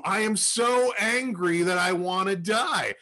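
loud, slow, dragged-out fury; angry declaration. Retold or imitated. Jonah telling God he's done, slow furious complaint. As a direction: lean hard into so angry. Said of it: "and he's pissed".

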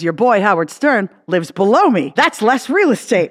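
imitating Regis. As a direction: rub it in like a proud showman.

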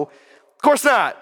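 slow, drawn-out Southern accent done badly; bad Southern drawl impression. Shown as a demonstration. Pastor mocks a slow Southern drawl for his congregation. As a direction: stretch it out in a hammy Southern drawl. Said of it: "It's a really bad impression".

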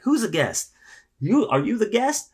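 high, loud hammed-up drunk woman. Drunk woman accosting the desk clerk, high and loud. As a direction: play the tipsy stranger barging in.

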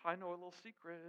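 put-on soft, secretive kid voice; a hint of a daughter bragging about a secret; teasing little daughter. Daughter hinting at a secret gift, lightly teasing. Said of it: "This is her".

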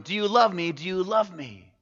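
lightly acted plea for reassurance; insecure pleading. Insecure mouse asks over and over.

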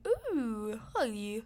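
drawn-out fake British greeting; loose, silly British lilt; mock British accent. Shown as a demonstration. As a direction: coo it in a badly faked British accent. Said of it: "And then I went to".

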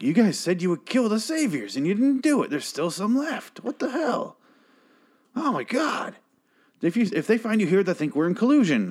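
very high-pitched put-on complaint; mock indignant outburst. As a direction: imitate a flustered leader scolding, way up high. Gregory's acted outburst at the group.

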